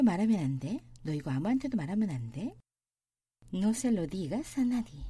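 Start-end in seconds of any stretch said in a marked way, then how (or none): 3.5-5.0 very slow Spanish; slow model reading. Shown as a demonstration. Teacher reading slowly for students. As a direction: read it slowly. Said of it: "teacher models slowly".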